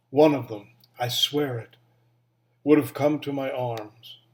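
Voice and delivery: measured poem recital with long pauses; poetry reading. Acted. Reading a favorite Mary Oliver poem to former students, measured poetry reading. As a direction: read it line by line, letting each image settle.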